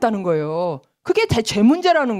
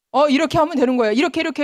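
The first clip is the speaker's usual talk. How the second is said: higher, quick preachy instruction; know-it-all lecturing; 4 semitones higher, faster than usual. Retold or imitated. Christian playing law teacher to people, preachy lecturing. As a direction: lecture like you know everything. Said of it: "하고 율법 교사가 된다는 거예요".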